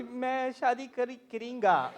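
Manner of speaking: put-on clumsy American-accented Urdu; horrible Urdu. Grown child attempting Urdu with parents, badly accented Urdu. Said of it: "your Urdu is horrible".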